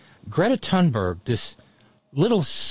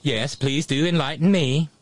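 hammed-up Swedish accent, sing-song; a playful Swedish accent for the girl; cheesy Swedish accent. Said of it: "do my cheesy Swedish accent".

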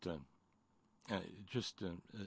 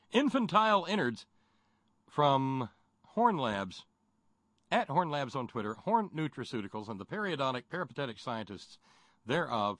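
chipper 1950s ad. Acted. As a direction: sell it like an old radio ad. Mock ad pitch.

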